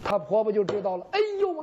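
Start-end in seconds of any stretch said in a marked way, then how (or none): 1.1-1.6 surprised exclamation. Acted. Mother-in-law realises it's her meat.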